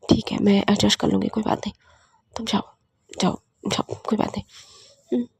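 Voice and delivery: soft, subdued giving in; hurt resignation. Acted. Hurt partner letting her go to her sister, quiet resignation. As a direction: let the words drop away quietly, resigned.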